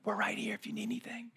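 hushed spa attendant whisper, quick; soothing spa worker whispering. Retold or imitated. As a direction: whisper like a calm spa receptionist. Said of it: "talking like someone that works at a spa".

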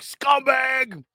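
high, scornful mock shout; mocking fans' verdict. New York fans dismissing Tiki Barber, high scornful mock shout. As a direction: spit out the insult like an angry fan. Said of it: "They're like".

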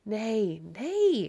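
a touch of eager urgency. A narrator's reading. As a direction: object quickly to keep the listener there. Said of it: "he said eagerly".

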